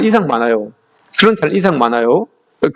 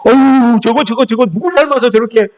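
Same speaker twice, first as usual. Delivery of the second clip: put-on exasperated sigh, then a louder scolding nag at the child; belittling scold; 4 semitones higher, 4 dB louder than usual. Parent scolding a child as the preacher imitates, exasperated nag. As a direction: put your child down, loud and fed up. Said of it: "기죽이지 마십시오".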